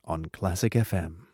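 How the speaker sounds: lightly voiced radio announcer, slowish; a touch of a smooth radio DJ; warm announcer. Shown as a demonstration. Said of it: "Can you do".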